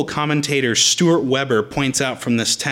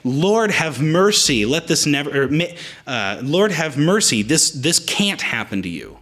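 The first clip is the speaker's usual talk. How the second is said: pleading. Retold or imitated. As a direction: beg him, slowing down. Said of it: "the thrust of the Greek here is actually more like".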